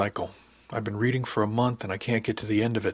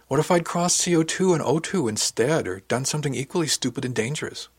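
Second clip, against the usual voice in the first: high, worried outburst; worked-up, anxious what-if; agitated self-doubt; 5 semitones higher, 3 dB louder than usual. Acted. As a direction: blurt out the worst case, pitch raised. Panicked self-doubt, argument escalating.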